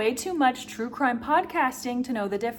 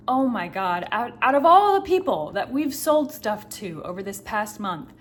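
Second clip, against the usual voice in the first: louder, rising alarm; panicky inner voice; 2 semitones higher, 5 dB louder than usual. Retold or imitated. Scared herself thinking of the buyer, loud and alarmed. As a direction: spill the worry out in a rush. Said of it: "this element of".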